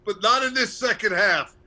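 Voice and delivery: rousing coach speech, building; halftime pep speech. Retold or imitated. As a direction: fire up the team like a coach. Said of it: "that's Herb Brooks from the, uh, nineteen eighty Russian game".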